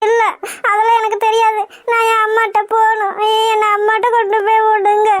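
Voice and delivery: tearful pleading, voice wet with tears; crying. Acted. Lost young woman begging strangers to take her to her mother, crying. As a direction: plead through sobs to be taken home. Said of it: "அழுகாம இரு".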